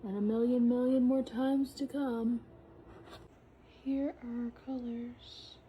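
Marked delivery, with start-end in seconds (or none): 3.8-5.6 soft breathy whisper. Real, not acted. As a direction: whisper it close to the mic. Whispered intro to the colors.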